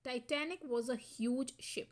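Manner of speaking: very slow, each word spaced out; slow dictation. Shown as a demonstration. Teacher reading the example sentence aloud to students, very slow. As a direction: spell it out for the class.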